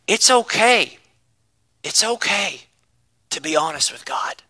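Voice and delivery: low, soft confiding sermon voice; intimate hush. Real, not acted. Preacher drawing the congregation close, quietly. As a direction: lean in and say it quietly.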